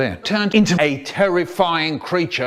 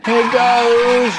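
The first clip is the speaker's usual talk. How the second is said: here goes; 8 semitones higher, 6 dB louder than usual. Acted. Bracing exclamation.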